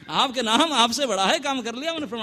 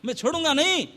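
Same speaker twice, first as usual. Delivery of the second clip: angry Rama; 5 semitones higher than usual. Acted. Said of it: "क्रोध मूर्ति हो रहे हैं".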